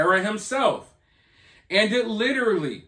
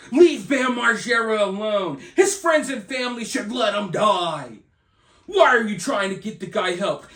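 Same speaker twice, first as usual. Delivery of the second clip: mock fan shout. Mocking Free Bam movement view.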